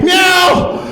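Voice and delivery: high, piercing meow; hammed-up human cat cry; woman turned cat. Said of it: "looking like she's turning into a cat".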